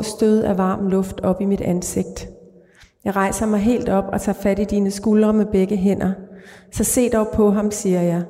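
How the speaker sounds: calm, even literary read-aloud; measured reading of a dark short story. A narrator's reading. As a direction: read the story steadily to the listener. Author reads her short story aloud.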